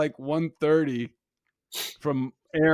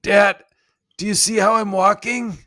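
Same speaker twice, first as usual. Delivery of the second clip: louder, higher calling Dad, Dad; a kid pushing for attention, louder and higher; insistent kid calling; 8 semitones higher, 9 dB louder than usual. Retold or imitated. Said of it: "She's like".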